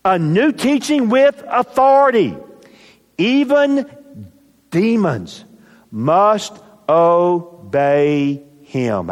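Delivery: high, astonished voice, slowing at the end; amazed crowd. Acted. Astonished people in the synagogue reacting, amazed. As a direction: marvel aloud like the stunned crowd. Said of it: "they ask the question".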